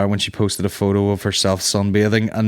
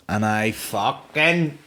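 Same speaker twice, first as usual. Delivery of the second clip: emphatic punchline; 3 semitones higher, much slower than usual. Real, not acted. Comedian reacting to the woman's words, emphatic outburst. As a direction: stretch it, pause, then hit it hard.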